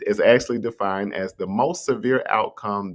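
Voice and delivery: slow reading. Shown as a demonstration. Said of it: "we're gonna read that one more time".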